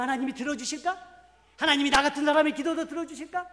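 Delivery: loud, high preaching at full force; fervent preaching. Acted. Preacher urging the congregation to boldness, loud and high.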